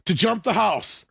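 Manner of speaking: high-pitched mock stunt announcer; stunt-show host. Kids filming their own stunts, mock host announcement. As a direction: announce it like a homemade stunt video.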